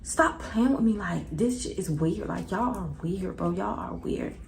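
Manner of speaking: irritated. Retold or imitated. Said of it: "So I'm like".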